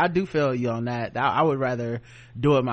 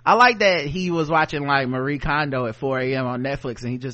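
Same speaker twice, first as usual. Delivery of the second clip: mock crackhead logic; 4 semitones higher, 4 dB louder than usual. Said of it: "Marie Kondo-inspired man voiced".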